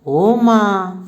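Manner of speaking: lightly acted groan of pain; moaning in pain. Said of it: "जोर से कराह कर बोलती है".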